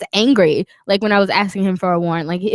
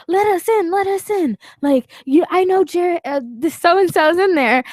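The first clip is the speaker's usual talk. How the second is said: higher, insistent mock cop; mock cop demand; 8 semitones higher than usual. Woman imitating the cop banging to get in. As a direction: play the pushy cop at the window.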